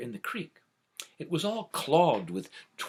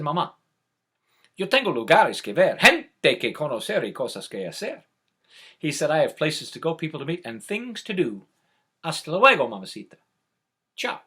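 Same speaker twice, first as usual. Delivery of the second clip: bold little chick; 2 semitones higher, 8 dB louder than usual. Acted. Chick defiantly leaving mother.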